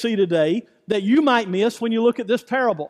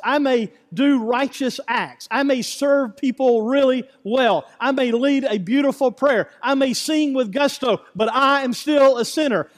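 rising preaching; 3 semitones higher than usual. Acted. Pastor driving home his sinner confession with preaching force. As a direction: preach it harder with each line.

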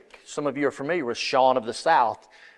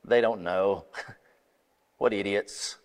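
scoffing inner voice; 7 semitones lower, 6 dB quieter than usual. Retold or imitated. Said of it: "I would take that as".

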